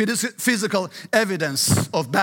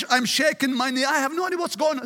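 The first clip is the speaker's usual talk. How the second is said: put-on higher-pitched quote of a bewildered boy; mildly agitated retelling, pitched up; retold bewilderment; 4 semitones higher than usual. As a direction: imitate a son's agitated testimony. Retelling son's bewildered, shaking account.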